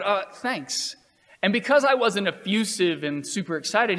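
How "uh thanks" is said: unenthusiastic. Retold or imitated. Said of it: "And I said".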